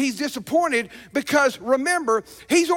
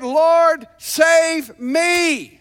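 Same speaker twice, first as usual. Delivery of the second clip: desperate cry; 3 semitones higher, 5 dB louder, much slower than usual. Acted. Peter sinking, crying out.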